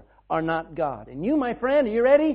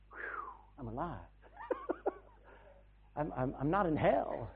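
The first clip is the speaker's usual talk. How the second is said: relieved waking; 11 dB quieter than usual. Pretend. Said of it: "you wake up realizing".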